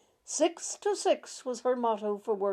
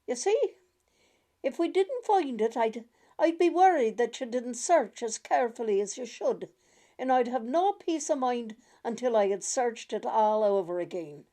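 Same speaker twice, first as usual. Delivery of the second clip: lightly voiced worried grandmother; 2 semitones higher, 4 dB louder than usual. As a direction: gently explain your fears to your son and grandchild. Grandmother explains her worry.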